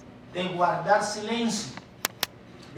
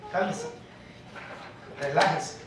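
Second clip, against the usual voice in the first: soothing calm; 3 semitones lower, 10 dB quieter than usual. Acted. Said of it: "la palabra de Dios nos dice".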